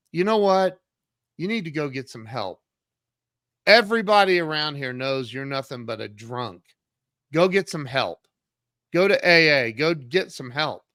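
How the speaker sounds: mildly angry telling-off; retold pissed-off rebuke. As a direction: tell him off, fed up but fairly contained. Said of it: "he was pissed off".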